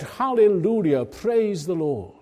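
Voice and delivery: high, joyful cry of Hallelujah; shouted praise. Retold or imitated. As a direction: call it out like a new believer overjoyed. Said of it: "he shouted out".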